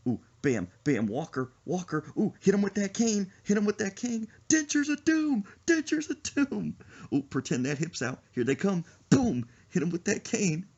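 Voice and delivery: high, loud excited gamer yelling; hyped gamers. Pretend. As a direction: cheer like gamers on headsets. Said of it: "They'll be like".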